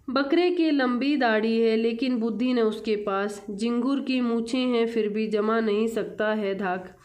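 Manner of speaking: measured classroom verse reading; poem recitation. Acted. Teacher reads the Hindi poem to children, poem recitation. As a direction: read the verse out clearly, line by line.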